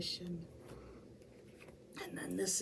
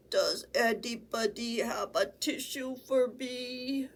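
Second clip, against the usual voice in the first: stuffy flea. Acted. Flea's stuffy-nosed plea.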